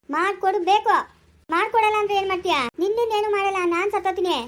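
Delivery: high, loud demanding argument; the girl and her aunt arguing over the meal; heated quarrel. Acted. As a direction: fight back and threaten.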